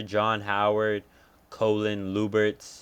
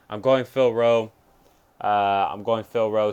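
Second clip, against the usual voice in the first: excited pick; 8 dB louder than usual. Real, not acted. Announcing new pick excitedly.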